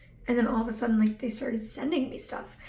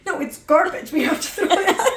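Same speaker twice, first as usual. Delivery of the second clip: emphatic insistence; 6 semitones higher, 8 dB louder than usual. Retold or imitated. Quoting self arguing with mom.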